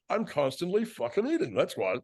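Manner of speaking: high, mouth-full fat chef; Olin Dick. Retold or imitated. Chef explaining he is always eating, high clogged voice. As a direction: imitate a chef talking through cream cheese. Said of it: "like he had a wad of cream cheese".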